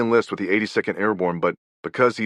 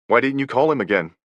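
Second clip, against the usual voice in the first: accusing question; 4 semitones higher than usual. Retold or imitated. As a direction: throw the blame at him. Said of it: "Francis's mother made Stan feel".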